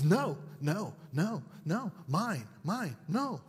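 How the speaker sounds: mild mock toddler no; lightly imitating a stubborn toddler; half-hearted childish protest; toddler refusal. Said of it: "their initial response is".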